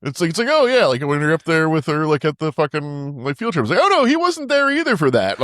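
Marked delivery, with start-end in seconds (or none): 0.5-3.6 mock chatty daughter. Imitating the daughter. 3.8-5.4 high, giggling girlish imitation; high squeaky laughing impression; laughing high mock voice. Imitating daughter while laughing.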